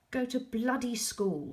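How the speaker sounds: high, loud snap; angry yell. A narrator's reading. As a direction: yell it in fury. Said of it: "he yelled".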